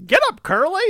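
put-on high, loud yell at the kid; shouting father. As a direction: bark it up high at Curly. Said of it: "he's like".

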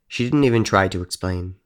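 ordinary delivery

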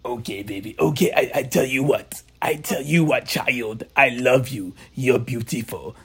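loving old auntie, lightly voiced; Auntie Charlotte impression. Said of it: "she loves when we do that".

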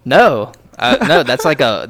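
loud horrified no; loud recoil. Real, not acted. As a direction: recoil loudly from the picture. Reacting to the huge bat photo.

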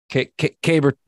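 halting false starts on Caber; stumbling start. Real, not acted. Host stumbles on the beer name under pressure. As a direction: trip over the name. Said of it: "Get it right".

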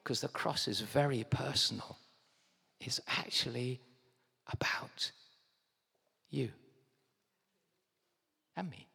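soft, slowed by long pauses; hushed, word by word; intimate earnestness. Real, not acted. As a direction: bring it down close and personal. Preacher makes the message personal.

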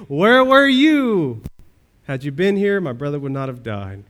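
Mary grieving to Jesus, a loud anguished cry; Mary's anguished cry. Retold or imitated. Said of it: "the first things out of her mouth were".

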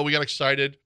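usual speaking voice

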